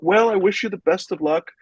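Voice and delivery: a lightly voiced, kindly officer wishing luck; a touch of cheerful policeman goodwill; super friendly cop. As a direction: hand it over like a friendly neighbour. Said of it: "Just a super friendly guy".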